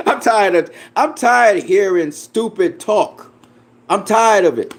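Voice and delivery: half-laughing, fed up; laughing exasperation. Real, not acted.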